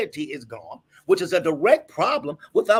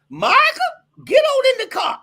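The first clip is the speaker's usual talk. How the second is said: put-on loud, high call to the boy; shouted summons from a father; 7 dB louder than usual. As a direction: call him to the car like dad. Father calling son at night.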